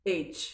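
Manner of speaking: एच said "aych", long "ay"; correct pronunciation. Shown as a demonstration. Teacher repeating for students, correct letter H. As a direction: model एच as English "aych". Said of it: "सही उच्चारण होता है एच".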